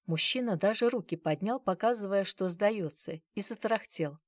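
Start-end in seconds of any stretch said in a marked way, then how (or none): none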